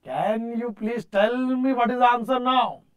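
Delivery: slow emphatic repeat. Shown as a demonstration. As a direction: stretch each word to press for an answer. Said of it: "Now can you please tell me what is the answer?".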